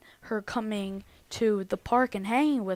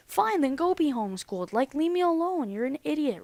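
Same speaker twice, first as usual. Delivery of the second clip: higher, retold angry dismissal; mildly heated comeback; exasperated retort; 5 semitones higher than usual. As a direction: act out brushing off an opponent in a row. Retold quarrel, telling her off.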